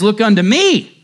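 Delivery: put-on fervent 'Look unto me' in a light Essex accent; broad Essex. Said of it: "said he in broad Essex".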